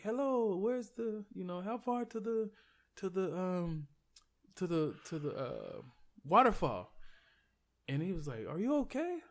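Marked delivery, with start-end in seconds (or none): 0.0-6.9 high-pitched mock British voice; imitated British accent. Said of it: "He had, like, a British accent". 8.5-9.2 high, rising mock British question; imitated British accent. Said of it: "He had, like, a British accent".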